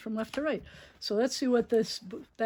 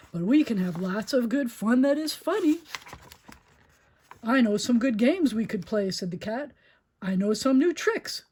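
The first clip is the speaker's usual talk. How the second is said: louder, playful cat voice; lively Cat in the Hat; 5 dB louder than usual. Acted. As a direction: tempt the kids to play.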